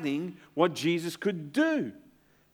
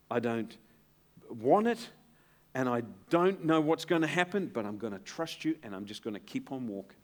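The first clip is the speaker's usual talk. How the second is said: earnest prayer; 2 semitones lower than usual. Retold or imitated. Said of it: "This is what I say".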